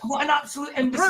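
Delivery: angry. Real, not acted. Heated argument with a troll.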